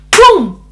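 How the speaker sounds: loud punchy "boom"; one explosive burst; imitated boom. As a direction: sound out a sudden blow. Imitates the sudden punch of pain.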